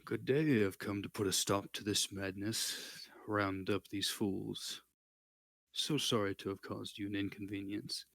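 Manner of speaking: commanding voice from inside a knight helmet; booming authoritative knight. Acted. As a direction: speak with charismatic authority, slightly muffled. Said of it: "booming, authoritative voice ... muffled voice through the helmet".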